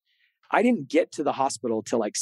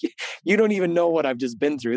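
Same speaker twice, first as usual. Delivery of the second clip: higher, put-on voice of wounded self-pity; self-pitying inner thought; 4 semitones higher than usual. Husband silently protests to his wife, mock self-pity. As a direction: play the hard-done-by husband, a little higher. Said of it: "That's what I'm thinking".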